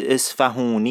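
"اصفهونی" drawn out as es-fa-hoo-ni; slow outsider's "اصفهونی", h sounded, long oo; outsiders' mispronunciation. Retold or imitated. Mimicking non-locals naming the dialect, slow wrong "اصفهونی" with oo.

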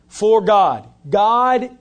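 emphatic. Acted. Preacher proclaiming the key phrase.

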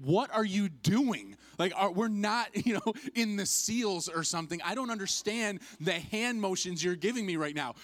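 loud, high, baffled complaint; comic incredulous protest; exasperated disbelief. Retold or imitated. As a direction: demand an explanation, voice pushed up. Retold bafflement at captain's hand signals.

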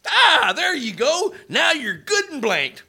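put-on hammy frontier old-timer voice; lightly voiced old prospector. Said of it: "your old prospector thing".

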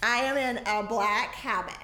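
slow, drawn-out announcement; stretched-out theatrical presentation; showy costume reveal. Acted. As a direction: relish each word of the reveal. Flamboyant entrant in black habit.

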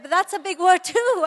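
high, loud, delighted exclamation; mock-delighted, pitch way up; tickled pride. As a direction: gush like a parent thrilled by the word. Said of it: "my ego got all tickled".

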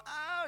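drawn-out cry of pain, imitated; mock crying. Preacher imitates Riley hurt on the fence, mock crying. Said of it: "he's like, he cry".

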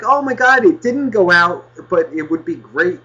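hammed-up gushing; mock cheerful voice. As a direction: parody a fake upbeat host. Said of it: "I have to make it like".

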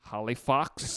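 a light imitation of someone's accent; Mick Gledhill accent. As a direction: put on his accent for the town name. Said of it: "in the Mick Gledhill accent".

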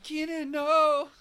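high, loud British wail, drawn out slowly; British accent. Acted. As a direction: cry out in a hammed-up British accent. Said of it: "you still do accents".

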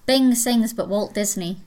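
put-on punchline in a light Scottish accent. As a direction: deliver the pun in a Scottish accent. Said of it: "jokes that only work in a Scottish accent".

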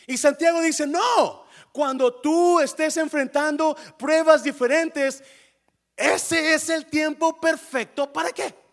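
predicación muy fuerte y aguda; prédica a todo pulmón. Acted. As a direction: proclama el mensaje con toda la fuerza. (sermón encendido a viva voz)

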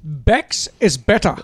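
slow, drawn-out mock British slogan; badly faked British accent, taking your time; attempted British accent. Host mock-advertises Beck's to his mates, dubious British accent. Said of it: "Is that British?".

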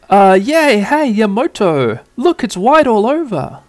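put-on high, excited child voice; squeaky kid, thrilled by snow; little boy voice. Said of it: "And T K's like".

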